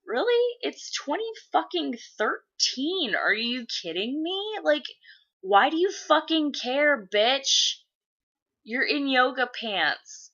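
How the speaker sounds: high, indignant tirade at a nosy mom; venting at a judgy school mom, high and indignant; incredulous rant. Retold or imitated. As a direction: rant up high, fed up and outraged. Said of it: "and I'm just like".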